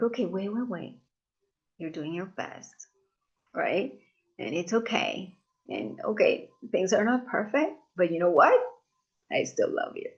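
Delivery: compassionate self-talk. Retold or imitated. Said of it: "I go to compassion".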